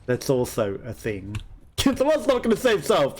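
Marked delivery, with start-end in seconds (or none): 1.8-3.2 character impression. Mimicking game character line.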